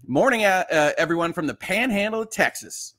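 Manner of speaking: put-on a playful Texas accent on the greeting; light mock Texas twang. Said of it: "I should not put a Texas accent on".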